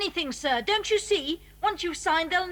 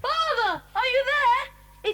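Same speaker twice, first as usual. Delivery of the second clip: calling out; 5 semitones higher, much slower than usual. Acted. Calling out in the tunnels.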